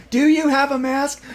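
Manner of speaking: high, slow, fussy lady voice; prissy masked lady. Retold or imitated. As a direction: play the prim lady who wants a mask. Masked lady in retold movie.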